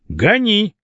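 high, sharp command; urgent high-pitched command; shouted order. A narrator's reading. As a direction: yell at the driver to go. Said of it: "кричал капитан".

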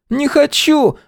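put-on boy's squeal, pitched very high; frightened boy squealing refusal. A narrator's reading. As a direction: yelp it in panic. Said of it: "взвизгнул Костя".

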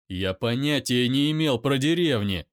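loud shout back; loud pained shout; angry shout. Acted. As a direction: roar it in pain.

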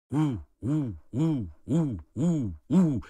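howling like a tornado wind; imitated wind howl. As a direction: mimic the wave lifting everyone. Imitating the howling blast wave.

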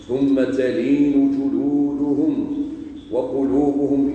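slow, drawn-out measured recitation; unhurried scriptural recitation; Quran recitation. Real, not acted. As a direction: recite the verse solemnly, stretching the long vowels.

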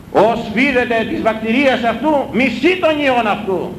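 slow solemn scriptural chant; intoned scripture. Acted. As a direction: recite it like a reading from the lectern. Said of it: "λέει η Αγία Γραφή".

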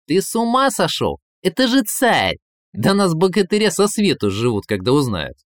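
high, agitated remonstration; alarmed protest. Acted. Ivan warns Koschei about kidnapping the tsar, alarmed. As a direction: burst out in alarm, pitch jumping up.

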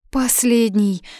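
mild high-pitched gasp of alarm; gasping dismay. A narrator's reading. Mother realizing the bread is gone, gasping. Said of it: "ахнула мама".

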